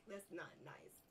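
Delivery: breathy giggled words; giggling. Real, not acted. Gamer giggles it under his breath. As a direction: whisper it through a laugh. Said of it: "I should not laugh".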